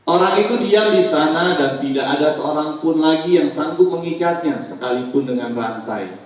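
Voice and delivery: loud, projected Bible reading; formal, emphatic recitation; scripture reading. Acted. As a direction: read the passage out to the congregation. Pastor reads scripture aloud.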